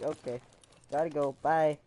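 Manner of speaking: imitated casual brush-off, lifting on the goodbye; phone-style sign-off. Little cousin dismissing the speaker as if on the phone, casual sign-off. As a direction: toss off a goodbye as if ending a call. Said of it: "like he was talking to me on the phone".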